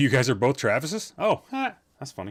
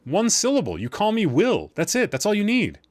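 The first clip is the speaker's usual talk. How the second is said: put-on character voice; 9 semitones higher, 4 dB louder than usual. Character insisting on short name.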